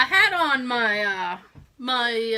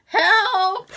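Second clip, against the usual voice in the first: short, high, louder call; brief comic yelp, pitched up; acted cry for help; 7 semitones higher, 6 dB louder than usual. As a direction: call out for help in a mock plea. Acts out calling for help.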